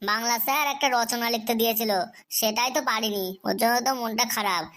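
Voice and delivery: low, dejected and downcast; glum. Acted. Student tells teacher why he is gloomy, low and glum. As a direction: sigh through it like a sulking schoolboy. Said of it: "এমন উদাসীন হয়ে গেলি".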